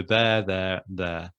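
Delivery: "there, there, there", each word sounded identically; three separate, matching pronunciations of "there". Shown as a demonstration. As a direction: repeat "there" with the same vowel every time. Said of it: "all pronounced in the same way".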